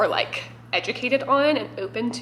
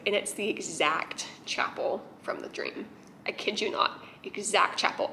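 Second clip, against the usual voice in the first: awed hush; 6 dB quieter than usual. Real, not acted. Awed recall of the chapel.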